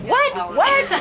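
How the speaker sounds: can't believe he said that; high laughing What? What?; stunned disbelief. Retold or imitated. Reacting to coach crediting the NFL.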